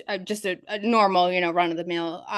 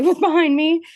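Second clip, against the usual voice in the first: nervous laugh, higher and louder; laughing at her own fear; 8 semitones higher, 7 dB louder than usual. Real, not acted. Laughs while telling fear.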